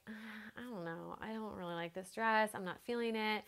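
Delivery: reluctant. Retold or imitated. Bride unsure about her former favorites, hesitant. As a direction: let the doubt drag out quietly. Retelling reluctance at favourite dresses.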